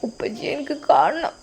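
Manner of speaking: put-on little girl whispering her wish; whispered plea. Daughter pleading to see her father, whispered. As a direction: breathe it out as a whisper.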